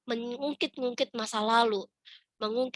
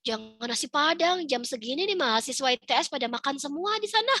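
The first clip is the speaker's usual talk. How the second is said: retold picky protest, slightly higher; lightly exasperated wife turning it down; fussy objection; 4 semitones higher than usual. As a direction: veto the idea with a mild whine. Acts out objecting to husband's suggestion.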